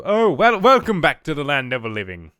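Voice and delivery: lightly voiced jovial dwarf; a touch of an eccentric old dwarf; Gundren's voice. Gundren greeting the dazed adventurer, lightly voiced dwarf. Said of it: "this was his voice".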